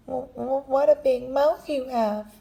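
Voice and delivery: put-on high, stuttering frightened girl; a touch of fear, stumbling over the w; stammering fear. Girl stammers, now afraid.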